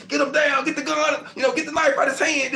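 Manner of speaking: high, loud shouted orders; shouting cops. Retold or imitated. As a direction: yell over the chaos to take him down. Police shouting orders during takedown.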